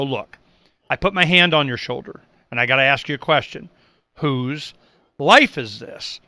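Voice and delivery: a mild, quiet heart-to-heart to a caller; gentle appeal. Retold or imitated. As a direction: lean in like a hand on the shoulder. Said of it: "I just go".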